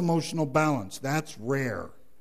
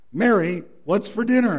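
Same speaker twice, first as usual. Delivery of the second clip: raised, higher call of her name; loud call; 6 semitones higher, 5 dB louder than usual. Retold or imitated. Husband right beside his wife, calling out loud.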